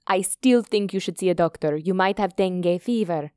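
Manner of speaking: lightly voiced, insistent doctor's daughter; insistent Indian girl. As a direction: press the advice without raising the voice. Voices Hita advising Alex.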